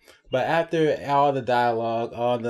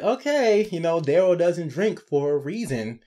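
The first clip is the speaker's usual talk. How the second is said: high, startled warning; hint of shock in a raised pitch; a lightly voiced worried aside; mock alarm; 5 semitones higher than usual. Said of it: "I was like".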